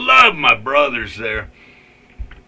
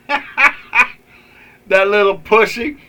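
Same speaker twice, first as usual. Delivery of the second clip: scornful laugh; 6 semitones higher, much slower than usual. Real, not acted. Mocking the mayor.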